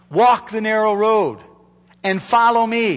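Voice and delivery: walk the narrow road said fuller and firmer, stress on walk; firm charge. Acted. Repeated charge, now firm.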